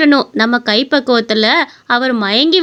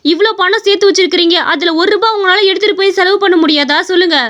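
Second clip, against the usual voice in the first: exasperated wife; 5 semitones higher than usual. Acted. Sick wife confronts stingy husband.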